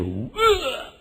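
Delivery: high retching noise; mock retch; imitated vomiting. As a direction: mimic throwing up seawater.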